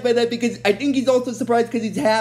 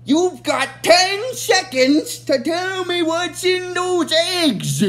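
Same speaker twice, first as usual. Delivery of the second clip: annoyed Rita; 6 semitones higher, much slower than usual. Retold or imitated. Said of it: "so annoyed with him".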